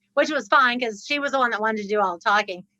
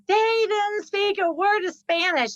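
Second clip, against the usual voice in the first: mock accusing; 6 semitones higher, slower than usual. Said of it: "And she's like".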